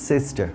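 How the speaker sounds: "sister" à la britannique, finale allongée sans R; finale longue sans R. Shown as a demonstration. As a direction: allonge la fin de "sister", efface le R. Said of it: "একটু long sound হিসেবে আসবে".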